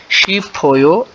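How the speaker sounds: शी फो यो, slow and drawn out; slow demo. Shown as a demonstration. Teacher repeating the word slowly for learners. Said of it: "तो ये ओ की बजाय फो बन जाएगा".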